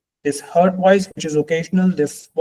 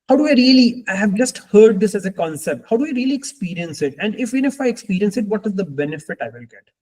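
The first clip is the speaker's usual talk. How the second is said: questioning listener; 4 semitones higher, faster than usual. Acted. Voices a listener's doubting questions.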